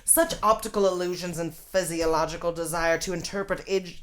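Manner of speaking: lightly voiced old newsreel scientist; 1950s scientist voice. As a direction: read it like a fifties science film narrator. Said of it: "nineteen fifties scientist voice".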